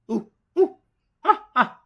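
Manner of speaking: loud high ooh-ooh ah-ah; monkey noises. Retold or imitated. First monkey in the bath, loud high hoots. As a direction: hoot like a monkey. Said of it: "the first monkey says".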